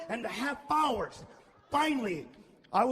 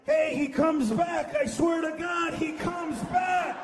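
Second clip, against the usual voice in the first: excited reassurance; 4 semitones higher, slower than usual. Retold or imitated. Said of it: "I'm like".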